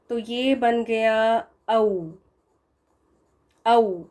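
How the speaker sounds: औ with rounded lips; sound au. Shown as a demonstration. Teacher models औ as au. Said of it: "ये अव नहीं है".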